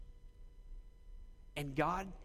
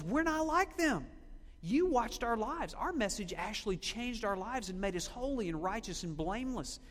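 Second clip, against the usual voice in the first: Paul; 4 semitones higher than usual. Acted. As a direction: declare it emphatically, as a preacher quoting an apostle. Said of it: "But Paul says".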